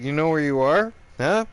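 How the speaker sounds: loud, high challenge; confrontational taunt. Retold or imitated. Teller challenging the inmate he grabbed, loud taunt.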